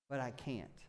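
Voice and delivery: low, quiet defeated whine; whiny I can't. Acted. Thomas sulking to Jesus, quiet low whine. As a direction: whimper it like a sulky kid. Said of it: "Thomas's response is".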